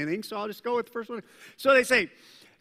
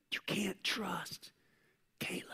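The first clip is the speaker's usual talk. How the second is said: slander whisper; 10 dB quieter than usual. Retold or imitated. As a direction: hiss the doubt about Caleb. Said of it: "whispering side".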